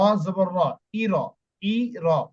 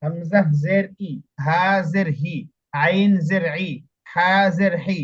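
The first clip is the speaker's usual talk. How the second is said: careful model reading; slower than usual. Shown as a demonstration. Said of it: "এভাবে পড়বেন।".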